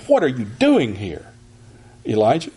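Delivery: rebuking demo reading; rebuke. Shown as a demonstration. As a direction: stress on "What", a scolding question. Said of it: "we might say it like this if we think this is a rebuke".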